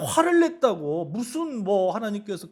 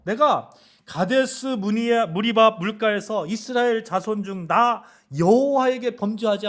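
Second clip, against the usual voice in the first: voicing God; 2 semitones higher, 3 dB louder than usual. God telling Moses he cannot enter Canaan, lightly voiced and grave. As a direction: speak as God showing Moses the land, then denying it. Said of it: "말씀하신 거죠".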